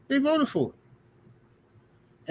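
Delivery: slow mocking drawl; drawn-out taunt. Real, not acted. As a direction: drag it out to mock them. Taunting Trump voters.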